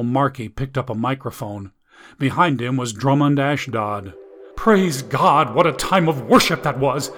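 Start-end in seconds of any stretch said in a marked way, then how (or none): 4.6-7.1 upbeat televangelist welcome; TV preacher. Acted. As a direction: beam at the audience like a pastor. TV preacher greets the crowd.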